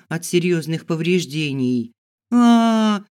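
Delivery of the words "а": high loud steady "A" scream; one-note scream. Acted. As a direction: hold a single shrieking note. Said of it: "на одной ноте кричала я".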